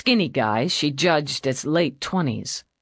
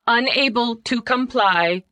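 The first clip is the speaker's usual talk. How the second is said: higher machine voice; computer voice; 7 semitones higher than usual. Acted. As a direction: answer like a computer. Computer replies.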